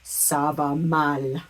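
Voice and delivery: slow, low "Ça va mal"; French model phrase. Shown as a demonstration. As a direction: model "Ça va mal" with the tune kept down. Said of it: "or mal".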